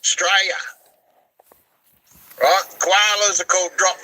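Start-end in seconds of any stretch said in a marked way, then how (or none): 0.0-0.5 "Australia" shortened to "Straya"; Aussie pronunciation. Shown as a demonstration. Aussie correcting his pupil, "Australia" said as "Straya". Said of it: "us Aussies call it Australia".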